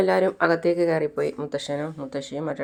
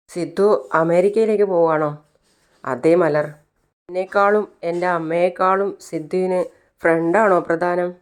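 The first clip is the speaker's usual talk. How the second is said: a hint of a small girl's voice, a bit higher and louder; little Malar asking Sidhu if his friend matters more, lightly voiced and plaintive; little girl pleading; 3 semitones higher, 4 dB louder than usual. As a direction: lightly voice the hurt child asking why he leaves. Little Malar questions Sidhu sadly.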